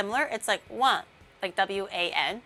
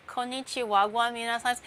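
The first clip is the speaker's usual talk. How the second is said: imitating trending guy. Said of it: "Is that guy still trending?".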